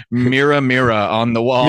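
a hint of a wicked queen, slow; lightly voiced queen conjuring at a mirror; evil queen. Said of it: "you sound like the Wicked Queen".

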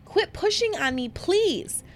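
high, loud panicked pleading; Candace screaming. Retold or imitated. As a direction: beg in panic as if you're suffocating. Retold child pleads under pillows.

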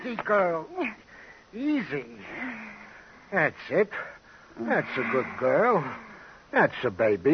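soft, gentle, as if calming a wild animal; gentle her down like a spooked horse; soothing. Acted. Sergeant softly calming the wildcat woman like an animal.

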